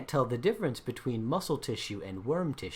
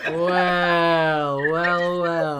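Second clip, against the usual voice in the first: big, higher, long-held words; loud, drawn-out reaction; 4 semitones higher, 11 dB louder, much slower than usual. Real, not acted. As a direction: draw each word out loudly. Game master relishes the sudden turn.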